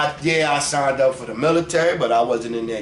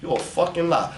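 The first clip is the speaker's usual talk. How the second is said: ordinary talk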